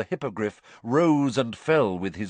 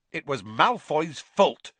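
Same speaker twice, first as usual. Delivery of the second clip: higher, slow sharp retort; Dean Thomas snapping; 6 semitones higher, 3 dB louder than usual. A narrator's reading. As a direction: snap back with the blame. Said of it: "snapped Dean Thomas".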